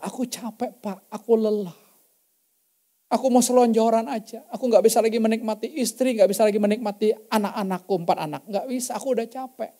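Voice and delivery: a touch of the husband's weary plea. Retold or imitated. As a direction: let the fatigue weigh on each line. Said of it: "belum ngomong banyak udah nangis".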